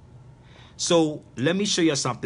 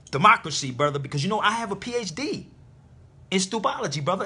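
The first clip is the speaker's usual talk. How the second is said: mock know-it-all. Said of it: "they will still go right back and say".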